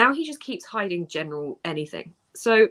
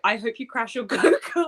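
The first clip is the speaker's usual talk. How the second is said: laughing; 3 semitones higher than usual. Real, not acted.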